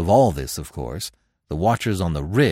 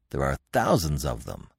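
low, softer mutter; 9 semitones lower, 6 dB quieter than usual. Acted. Conan eyeing the Vendhyan host, low mutter. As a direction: grumble it under his breath. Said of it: "muttered Conan".

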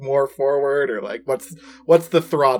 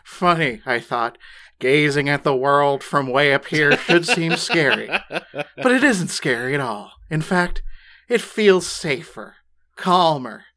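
lightly put-on dramatic audiobook narrator; measured mock-solemn reading, each phrase set apart; Brad Neely impression. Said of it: "get with your best bread, Neely".

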